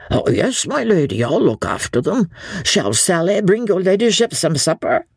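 bow and serve, hiding surprise; innkeeper. Acted. Innkeeper Jellyband answers her ladyship, deferential.

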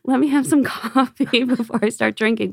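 high, loud plea through laughter; laughing mock plea. Hungover diner answering a French winemaker, laughing high-pitched protest. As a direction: beg for a moment, voice pitched right up and amused.

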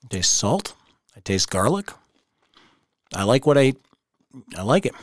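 talking while chewing a crunchy pretzel; crunching pretzel. Real, not acted. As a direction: speak through a mouthful of crunching pretzel. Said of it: "Can you hear me crunching that?".

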